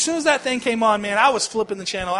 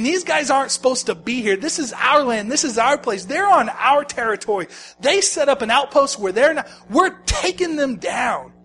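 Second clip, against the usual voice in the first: hint of disgust; 3 semitones higher, 4 dB louder than usual. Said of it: "a hint of disgust inside of him".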